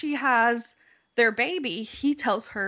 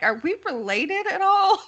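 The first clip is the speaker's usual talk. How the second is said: high squeaky mock panic; a high-pitched quoted worry; mock alarmed question; 10 semitones higher than usual. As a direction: pitch it way up, startled. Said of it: "she's like".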